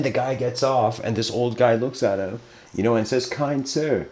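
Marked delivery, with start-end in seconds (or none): 3.3-4.1 graceful. Acted. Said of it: "endlessly graceful".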